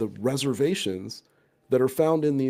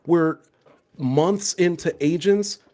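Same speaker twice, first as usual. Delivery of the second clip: holding back a shout; 4 semitones higher, 5 dB louder than usual. Real, not acted. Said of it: "I'm trying not to yell".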